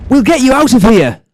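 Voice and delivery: very high, excited call; urgent rescuer. Acted. Harry's friends rescue riders from Voldemort, urgent high call.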